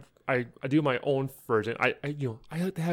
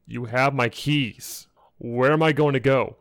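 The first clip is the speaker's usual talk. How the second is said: exasperated retort; 6 dB louder than usual. Retold or imitated. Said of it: "I'm like".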